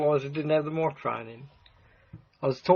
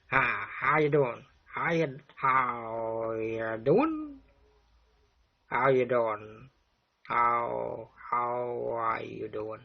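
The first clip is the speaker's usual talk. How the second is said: put-on drawn-out, lower Chicago accent; Mister Pig; 4 semitones lower, much slower than usual. Vlogger recalling how Mister Pig talks, slow Chicago accent. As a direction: try out a slow Chicago accent, stretching the words. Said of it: "he's more like your Chicago accent".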